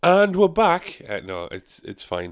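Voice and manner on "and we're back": announcer voice. Real, not acted. Resumes after pause, announcer style.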